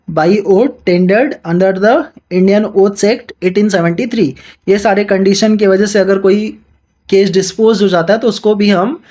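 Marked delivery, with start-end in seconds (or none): 0.1-4.3 slow, deliberate reading of the statute; measured textbook read-aloud; slow legal reading. Acted. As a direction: dictate each clause slowly to students. Quotes statute text mid-explanation.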